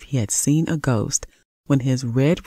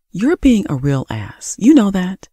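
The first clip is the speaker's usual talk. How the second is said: rising to a sharp, much louder and higher accusation; accusing; 5 semitones higher, 5 dB louder than usual. Acted. Woman accusing drunk Moses in front of his date, angry shout. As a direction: jab the words at him, building to a near shout. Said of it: "pointed an accusing finger".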